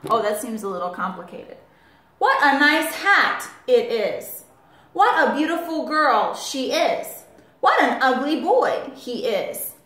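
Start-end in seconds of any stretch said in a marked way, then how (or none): 2.2-9.7 excited exclamations. Shown as a demonstration. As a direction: exclaim each one with a lift. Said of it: "say something in an excited voice".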